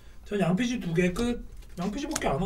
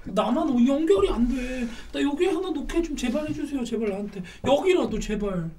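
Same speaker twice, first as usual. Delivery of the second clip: playful pleading; 6 semitones higher than usual. Pretend. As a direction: beg theatrically for just one favor. Begging for a tile to connect.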